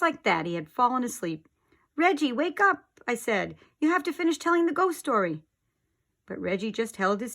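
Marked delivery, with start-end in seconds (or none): 2.0-5.4 higher, faster urging; urgent plea. Acted. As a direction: shake him awake with words. Waking a sleeping friend.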